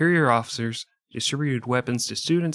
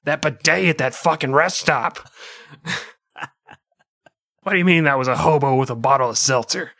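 Jabba the Hutt; 2 semitones higher, 4 dB louder than usual. Pretend. Continues Jabba voice.

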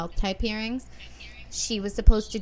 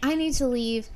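raised and higher, imitating a pushy attorney; insistent mock demand; 6 semitones higher, 5 dB louder than usual. Attorney demanding a new date from the judge, raised mock insistence. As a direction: repeat the demand louder, like a spoiled lawyer. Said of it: "And he's like".

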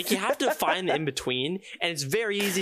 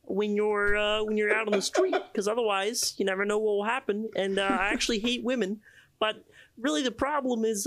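Kermit the Frog voice crossed with Jordan Peterson; 3 semitones higher than usual. Pretend. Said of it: "Can we please hear Jordan Peterson Kermit?".

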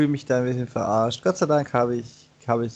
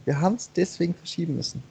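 mocking excuse voice; 4 semitones higher, faster than usual. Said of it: "Und die sagen immer noch".

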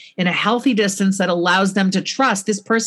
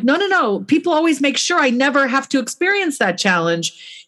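mock child's protest; 8 semitones higher than usual. Voicing an overprotected child.

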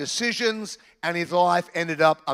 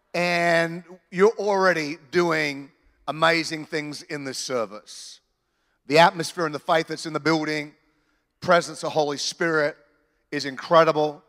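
earnest spoken prayer to God. Acted. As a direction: pray over the church, steady and sincere. Pastor leads an opening prayer.

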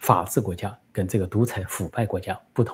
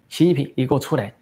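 习近平 called out with stress on 近, falling, a bit higher; loud call-out; 5 semitones higher than usual. Retold or imitated. Daughter calling Xi Jinping out, loud. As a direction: shout 习近平 as a challenge. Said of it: "孟晚舟大声说".

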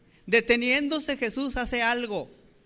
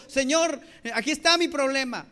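higher, moderately raised acted cry; grito de súplica imitado; 4 semitones higher, 3 dB louder than usual. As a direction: call out to God as a desperate churchgoer would. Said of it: "que gente gritara y decía". (clamor imitado con voz aguda)

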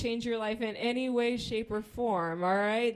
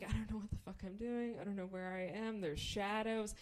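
hushed nervous inner monologue; quiet, understated panic; beyond nervous; 6 dB quieter than usual. Retold or imitated. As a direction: fret softly to yourself. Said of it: "beyond nervous".

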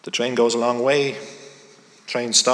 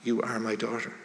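slow, much softer, through tears; tearful mother; 3 semitones lower, 6 dB quieter, slower than usual. A narrator's reading. Mother in tears answering her daughter, slow and soft. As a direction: let it come out slow and choked with tears. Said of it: "the mother bursts into tears".

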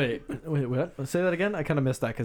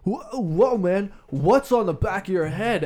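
higher, louder, slow startled question; surprised coworker; 7 semitones higher, 6 dB louder, slower than usual. Retold or imitated. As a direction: act out the guy gawking. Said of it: "he's like".

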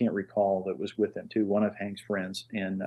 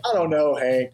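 higher, louder joking hesitation; exaggerated, put-on doubtfulness; mock reluctance; 6 semitones higher, 5 dB louder than usual. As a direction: play hard to get, hammed-up. Jokingly plays hard to get.

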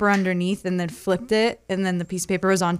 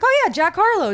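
put-on teasing boyfriend; 10 semitones higher, 3 dB louder than usual. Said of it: "He was like".

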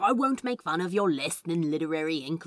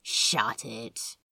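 lazy; 6 semitones lower than usual. Acted. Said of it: "Crowley said lazily".

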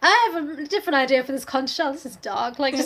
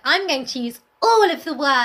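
excited novice writer; 4 dB louder than usual. Retold or imitated. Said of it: "get really excited".

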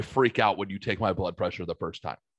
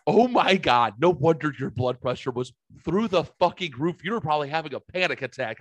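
retold astonishment; 5 semitones higher than usual. Nurse realizing why blood pressure was up, mock astonished. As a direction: burst out as the amazed nurse, then ease off.

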